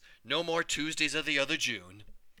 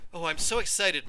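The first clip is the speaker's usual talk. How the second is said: high, louder eager gush; excited; 5 semitones higher, 6 dB louder than usual. A narrator's reading. Mother on the drive to the new home, excited. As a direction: bubble over with excitement. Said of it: "my mother said".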